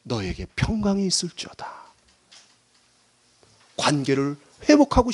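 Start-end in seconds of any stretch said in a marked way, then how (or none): 0.0-1.8 soft, measured word of peace; quiet, tender scripture quote; forgiving blessing. Acted. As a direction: speak peace gently, without reproach. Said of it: "예수님이 따져서 묻지 않았습니다".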